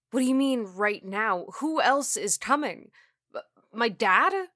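high, loud anxious questions; alarmed questioning. Acted. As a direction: press for answers, stumbling at the end.

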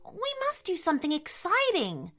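put-on mildly bored girl character, sighing first; lightly acted boredom lifting into eagerness. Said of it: "sighed Elliot".

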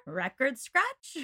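slow, drawn-out spoken sound cue; mock shock. Co-host reacting to the daughter reveal, mock shock. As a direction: stretch it out in mock disbelief.

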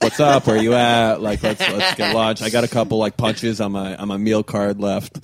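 eager texting voice. Retold or imitated. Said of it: "twenty, thirty texts in a row".

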